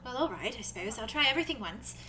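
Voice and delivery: polite, lilting character voice; Arthros, hesitantly agreeing. Acted. Arthros agrees to try it once, tentative. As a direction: give in with tentative good grace.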